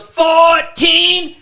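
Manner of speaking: high, loud drawn-out Asian-accent imitation; mock Asian-accented customer at full volume; thick mock Asian accent. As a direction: yell the haggle in a hammed-up Asian accent. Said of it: "she had a very thick, like, an Asian type thing".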